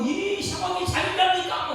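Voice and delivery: high, loud desperate cry; frantic plea. Acted. Disciples waking Jesus amid the storm, shrill panic. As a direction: shriek it as if the boat is sinking.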